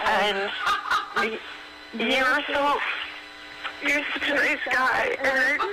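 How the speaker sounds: halting, choked-up words; tearful. Real, not acted. Caller to the man who told their story, tearful and halting. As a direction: fight back tears between long pauses. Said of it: "why are you crying now".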